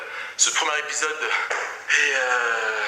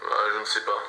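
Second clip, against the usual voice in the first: normal talking voice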